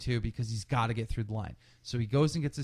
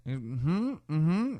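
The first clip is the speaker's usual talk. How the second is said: closed-mouth humming answers; mummed yes and no; 3 semitones higher than usual. Retold or imitated. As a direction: imitate someone answering only in tight-lipped hums. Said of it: "He just mums yes and no".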